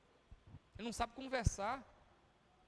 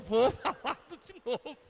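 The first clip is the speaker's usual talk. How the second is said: rindo ao imitar; 3 semitones higher, 5 dB louder, slower than usual. Retold or imitated. Ri ao contar.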